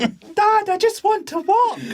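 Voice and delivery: put-on high, loud whiny boy voice; pleading son. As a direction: beg your dad like a kid. Son pleading to father, acted.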